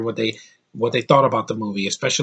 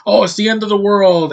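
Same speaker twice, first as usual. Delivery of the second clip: mock panic; 7 semitones higher, 5 dB louder than usual. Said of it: "'cause they're like".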